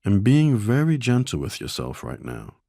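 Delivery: gentle, measured guidance with long silences between phrases; guided meditation. Acted. Meditation teacher guiding listeners to observe their shame, gentle and calm. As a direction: calmly invite them to notice, leaving space.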